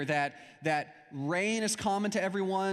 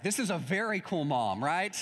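"very" stretched and stressed, playfully impressed; mock-serious approval with weight on "very"; impressed emphasis. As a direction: lean on "very" as if newly won over. Escalated reaction after getting money himself.

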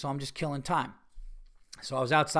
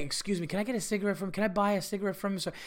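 polite request; 4 semitones higher, 4 dB quieter, faster than usual. Shown as a demonstration. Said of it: "But that's what you do. You say".

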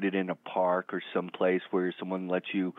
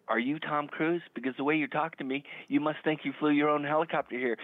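higher-pitched retold telling-off; indignant retort; 4 semitones higher than usual. Realtor retelling his comeback to a celebrity's handler, indignant.

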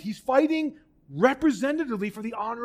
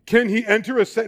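slamming mockery; 6 dB louder, faster than usual. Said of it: "he tries to slam Jesus".

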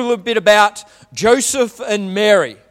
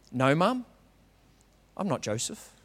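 mock kid reply; 6 semitones lower, 12 dB quieter than usual. Kid answers mum in story.

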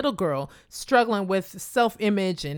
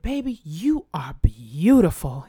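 put-on old lady's compliment; 2 semitones lower, 4 dB louder, slower than usual. Old lady compliments her at luncheon.

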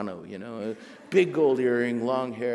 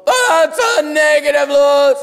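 much higher, louder barked military reply; Marine drill instructor; 15 dB louder than usual. Retold or imitated. Marine agent barking at the nervous writer, drill-instructor voice. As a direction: bark it like a drill sergeant.

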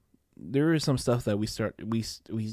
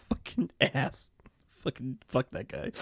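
laughing curse; 3 semitones higher than usual. Real, not acted. Cursing brother through laughter.

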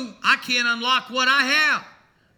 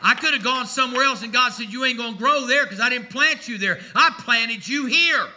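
preaching; 4 dB louder than usual. Acted. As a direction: plant each word like a preacher. Preaching with rising force.

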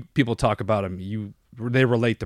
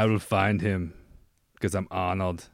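put-on Arnold Austrian accent; 3 semitones lower, 5 dB quieter, slower than usual. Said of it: "the worst Austrian accent".

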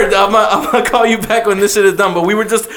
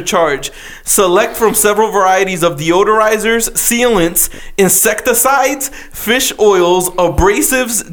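flyer read-out. Acted. Reads a spa flyer aloud.

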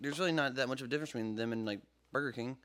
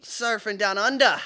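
louder, slow hammed-up Australian accent; slow mock Australian surfer voice, louder; 5 semitones higher, 10 dB louder than usual. Mocking Australians after accent talk.

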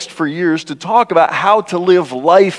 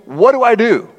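puzzled Nicodemus; 4 semitones higher than usual. Retold or imitated. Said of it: "Nicodemus immediately defaults to".

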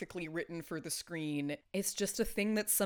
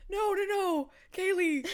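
emotional protest; 13 semitones higher, 5 dB louder than usual. Real, not acted. Overwhelmed, begging friend to stop.

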